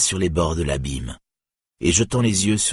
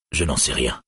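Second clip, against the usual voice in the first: gloomily; 5 semitones lower than usual. A narrator's reading. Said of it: "répondit Dorlas sombrement".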